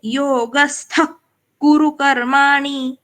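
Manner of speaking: योगस्थ with the visarga taking the sound of कुरु; visarga blended. Shown as a demonstration. Teacher shows how visarga blends into the next letter. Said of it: "इस तरह से".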